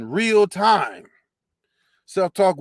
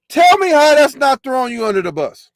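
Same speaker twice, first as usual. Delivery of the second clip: higher and louder, demanding an answer; loud challenge; 6 semitones higher, 6 dB louder than usual. Real, not acted. Host demands an answer from the woman, loud and higher. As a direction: shout the challenge at her. Repeats line loud then fast.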